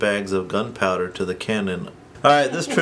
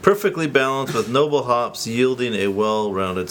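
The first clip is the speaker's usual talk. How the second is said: label read. Retold or imitated. Reading beer label copy aloud.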